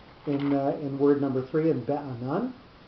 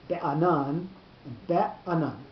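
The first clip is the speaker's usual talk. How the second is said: be'anan said slowly twice, first with the stress on the end, then with it shared onto the first syllable; stress contrast; slower than usual. Shown as a demonstration. Teacher asks if the class hears the difference, slow stress contrast. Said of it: "I don't know if you can hear the difference".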